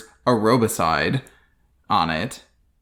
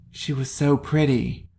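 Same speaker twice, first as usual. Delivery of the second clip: flat, soft fake shock; mock shocked; 4 dB quieter, slower than usual. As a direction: deliver it as badly acted shock. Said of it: "this sort of shocked thing".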